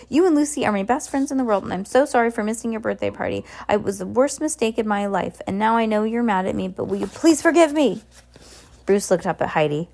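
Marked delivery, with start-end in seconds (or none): 0.1-8.0 earnest, quick-paced apology; plead, lifting at the final question; begging. Acted. Heidi apologizing for missing the birthday party, begging. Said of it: "Heidi begged".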